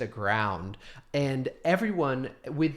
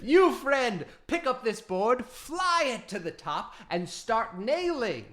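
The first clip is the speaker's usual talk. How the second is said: Loxodon voice; 9 semitones higher, 5 dB louder than usual. Acted. Loxodon NPC directing.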